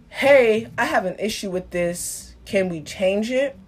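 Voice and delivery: mildly acted calm request; understated, polite acted complaint; calm objection. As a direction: raise the issue calmly, as a modelled example. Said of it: "they could be saying it calmly".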